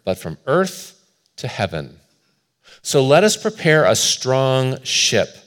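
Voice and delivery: deliberate, emphatic reading with pauses between phrases; measured, declamatory sermon quotation; slow quote reading. Real, not acted. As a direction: read it out slowly and firmly. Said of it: "try to read it slowly".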